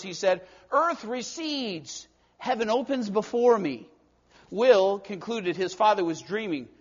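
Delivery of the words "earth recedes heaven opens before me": very slow, deliberate phrases; careful measured words. Acted. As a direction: weigh every word. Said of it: "in careful measuring words".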